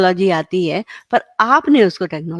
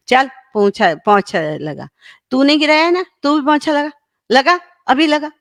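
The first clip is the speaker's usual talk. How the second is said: angry parent; 5 semitones higher than usual. Acted. Parent angrily orders child to mop the spill, mock scolding. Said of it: "परंतु आपने गुस्से में कहा".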